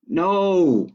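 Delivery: lightly voiced high little girl, insisting; a child who won't let the sheep stop; Ava insisting. Girl refusing to let tired sheep quit, high and insistent. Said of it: "said Ava".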